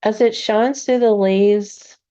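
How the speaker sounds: calm meditation guide with long, restful pauses; unhurried, soothing guidance, leaving room to breathe; guided meditation. Acted. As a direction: ease them gently into relaxation, phrase by phrase.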